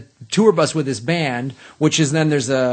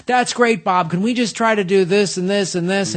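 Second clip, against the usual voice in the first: put-on higher, eager studio kid; young booth guy; 3 semitones higher than usual. Young guy in the booth coaching Mitchum, eager. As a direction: imitate a young director coaxing the talent. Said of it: "some young, young guy in the booth".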